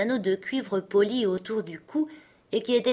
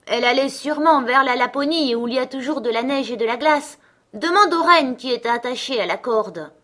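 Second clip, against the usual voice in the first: higher bird voice, answering; wood pigeons; 6 semitones higher, 6 dB louder than usual. Acted. Pigeons answering Gerda from above, higher.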